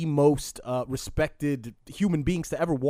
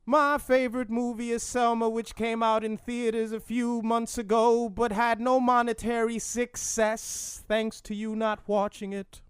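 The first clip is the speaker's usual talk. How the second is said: high, even singsong oratory; Martin Luther King; 7 semitones higher than usual. Acted. King answering a question on his favorite movie, high chanting impression. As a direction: intone it like a hammed-up preacher. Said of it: "talking in song".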